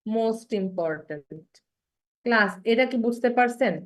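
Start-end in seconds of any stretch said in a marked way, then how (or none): 0.1-1.5 slow drawn-out demo. Shown as a demonstration. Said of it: "আবার কি বলি".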